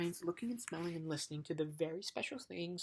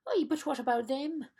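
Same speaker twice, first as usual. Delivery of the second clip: high, loud panicked yelp; terrified cry; 9 semitones higher, 10 dB louder than usual. A narrator's reading. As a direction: shriek it in terror. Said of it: "cried the terrified bug".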